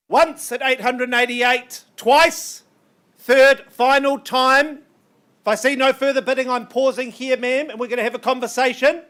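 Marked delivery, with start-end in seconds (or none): 0.1-4.8 auctioneer's final call. Real, not acted. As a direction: call the going-going-gone like a real auctioneer. Auctioneer calling final bids.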